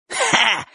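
short, high scornful "ha"; one derisive burst of a laugh; hoarse scoffing laugh. A narrator's reading. Bocho thinks he has caught Chik, scoffing laugh. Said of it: "хрипло усмехнулся Бочо".

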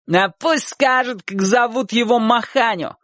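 put-on high-pitched boyish dare; shouted challenge. A narrator's reading. Boy in the crowd challenges Chik, shouting. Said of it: "крикнул тот мальчик".

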